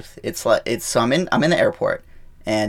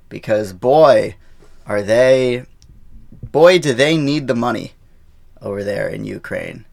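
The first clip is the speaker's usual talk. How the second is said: sarcastic-sounding; 4 dB louder than usual. Real, not acted. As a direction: say it so it comes across as sarcasm. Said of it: "I sound like I'm being sarcastic".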